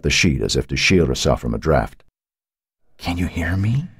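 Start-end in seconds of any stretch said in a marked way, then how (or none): 3.0-3.9 faint ghostly call. A narrator's reading. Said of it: "barely a whisper".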